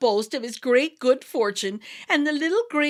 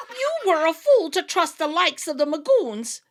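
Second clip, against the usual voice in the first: louder, higher, laughing through the words; mock him kindly between laughs; laughing fairy; 7 semitones higher, 6 dB louder than usual. A narrator's reading. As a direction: leader laughing at Tim's foolishness. Leader laughing at Tim.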